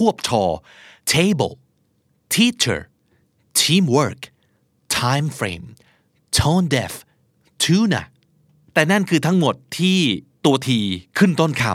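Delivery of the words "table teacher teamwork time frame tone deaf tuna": crisp aspirated T starting "table", "teacher", "tuna"; English word-initial T. Shown as a demonstration. Teacher showing how English T differs from Thai T, aspirated T. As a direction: start "teamwork" and "time frame" with a strong puffed T. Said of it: "T ฝรั่งมันจะต่างจาก T ไทย".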